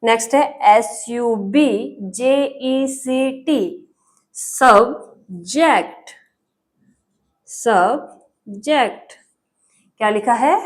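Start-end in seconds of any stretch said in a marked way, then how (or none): 4.4-6.1 सब्जेक्ट very slowly, pausing between सब and जेक्ट; teacher splitting सब्जेक्ट into slow, separate parts; सब्जेक्ट syllable by syllable. Shown as a demonstration. Teacher sounds out word in parts. 7.5-9.1 सब्जेक्ट slowly, सब and जेक्ट clearly apart; slow dictation of सब्जेक्ट with a gap in the middle; सब्जेक्ट syllable by syllable. Shown as a demonstration. Teacher repeats word in parts.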